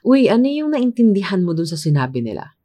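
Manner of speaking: quick, lightly acted aside to a colleague; lightly acted confused coworker. Coworkers ask each other what was understood, lightly acted. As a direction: ask it fast, in one falling sweep.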